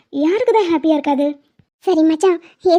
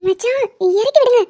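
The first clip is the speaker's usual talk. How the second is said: embarrassed pleading; 4 semitones higher than usual. Acted. Still held up, embarrassed pleading.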